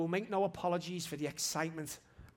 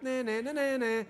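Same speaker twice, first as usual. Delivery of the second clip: raised, brushing-off nah nah; defiant dismissal; 9 semitones higher, 7 dB louder than usual. Retold or imitated. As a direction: wave the doubt away. Rebuking the enemy's voice.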